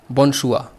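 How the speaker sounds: बोनशुआ said with a silent r, ending on a; French pronunciation. Shown as a demonstration. Teacher telling students the r is silent, French reading. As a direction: read बोनशुआ the French way, dropping the written r. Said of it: "आर जो है इसका silent है".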